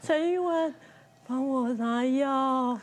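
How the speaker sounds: slow, dragging sick husband moaning from afar; ghostly call. Retold or imitated. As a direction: drag each word out like a weak ghost. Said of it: "这很像鬼片".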